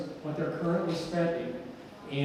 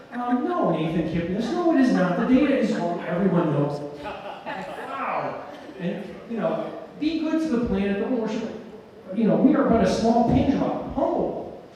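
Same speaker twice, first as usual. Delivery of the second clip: retelling a commenter scolding Nathan Kipnis, pitched up; imitating the commenter; 5 semitones higher than usual. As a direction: pitch her up and lecture him. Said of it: "commenter's reply retold".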